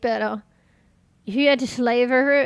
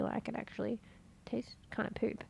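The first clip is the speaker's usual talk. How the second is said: whispering; 16 dB quieter than usual. Real, not acted. Aside about disliking cheese.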